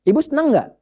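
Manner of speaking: ordinary talk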